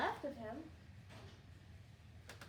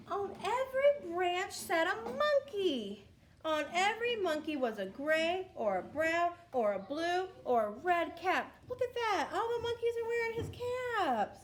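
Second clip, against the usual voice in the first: excited; 4 semitones higher, 5 dB louder than usual. Acted. Excited reveal of monkeys.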